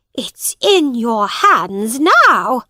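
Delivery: slow breathless whisper; hissed whisper. Acted. Woman to the boy, slow whisper. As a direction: breathe it out slowly, no voice.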